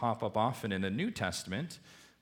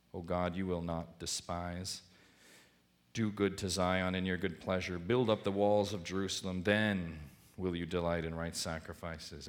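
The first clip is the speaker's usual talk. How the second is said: measured, solemn reading of a psalm, softening toward the end; scripture reading. Acted. Reads the psalm aloud.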